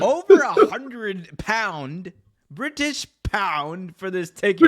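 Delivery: hammed-up British accent; mock British accent. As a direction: drawl it like a posh British fan. Mock British about pound.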